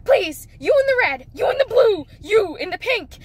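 rising exasperated calls; calling out to kids. Retold or imitated. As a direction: call the kids out one by one. Driver yelling at kids.

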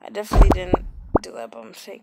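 fast, deadpan sarcastic claim. Real, not acted. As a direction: say it fast, clearly not meaning it. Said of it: "this time I'm being serious and not sarcastic".

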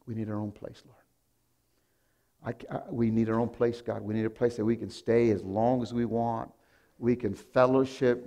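soft pleading prayer. Retold or imitated. Pastor praying alone in his car, soft pleading. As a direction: quietly plead with God. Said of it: "I got in my car".

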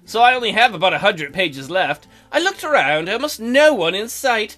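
measured, projected story reading; story narration. Acted. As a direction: read the heroine's account aloud. Reads the visual novel aloud.

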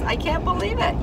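high, incredulous I can't believe it; disbelief. Real, not acted. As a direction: squeak out disbelief. Disbelief at contractor mistake.

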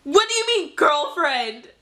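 put-on jealous outrage; mock indignation. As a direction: demand answers like a betrayed fan. Fangirl hears idol has girlfriend.

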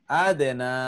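আদেনা with the final "না" held long; one-alif elongation. Shown as a demonstration. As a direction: stretch the last vowel of আদেনা. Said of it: "এক আলিফ টেনে পড়তে হয়". (আদেনা-র "না" এক আলিফ টেনে পড়া)

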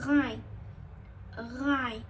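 Gayn with a gargled throat r at its start; throat letter. Shown as a demonstration. Teacher demonstrating a thick throat letter, gargled. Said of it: "boğazdan okunan kalın harfler".

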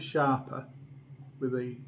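glass against lips; talking into wine glass; speaking while sipping. Real, not acted. Seen 1: Glass rim at lips, tilted to drink, throughout labelled words.

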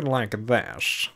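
drawn-out uptight prosecutor voice; slow, put-on uptight voice. Shown as a demonstration. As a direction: stretch the words like a stuffy prosecutor. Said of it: "uptight version of the prosecutor".

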